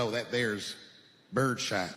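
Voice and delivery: lightly voiced, low country store clerk; a hint of a laconic gun seller. Clerk explaining shells to buyer, low laconic voice.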